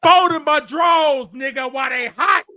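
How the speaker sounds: shouting down a rival on air; taunting shout. Real, not acted. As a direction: bellow it to belittle him. Mock threat rant at Crowder.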